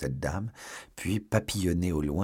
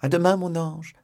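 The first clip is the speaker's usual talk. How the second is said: much higher, loving goodbye; high sweet farewell; 10 semitones higher, 5 dB louder than usual. Acted. La procureuse dit à demain à Porthos, très aiguë. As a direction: sing it to your angel.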